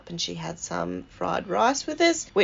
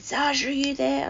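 calling out; 8 semitones higher than usual. Retold or imitated. Nan to grandchild crying in the corner, calling out. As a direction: imitate Nan calling across the room. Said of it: "she yelled out to me".

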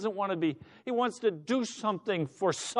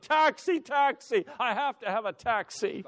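madman shouting; 5 semitones higher than usual. Acted. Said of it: "madman out in the middle of the street shouting".

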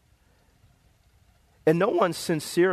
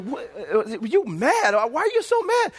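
wife asking; 5 semitones higher than usual. Retold or imitated. Wife asks why he's mad.

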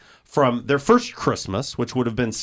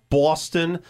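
Boston accent; 3 semitones higher than usual. Shown as a demonstration. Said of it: "Why did you say Boston?".

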